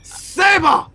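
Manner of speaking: high faux-German name call; mock German commentator. Commentator naming the winner, high mock-German voice. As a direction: announce it in a high pretend German voice. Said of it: "I haven't spoken German".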